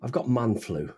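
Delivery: stuffy, run-down cold voice; man cold. Real, not acted. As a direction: talk through a heavy head cold. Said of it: "I feel like shit".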